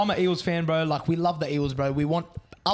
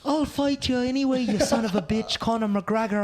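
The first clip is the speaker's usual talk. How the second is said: Conor McGregor impression; 6 semitones higher than usual. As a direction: do Conor McGregor in a thick Irish brogue. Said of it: "That's how Conor McGregor sounds".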